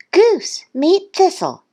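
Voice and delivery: high-pitched duck character; Duck's cheery voice. A narrator's reading. Duck introducing his new friend, high and cheery. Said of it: "Duck said".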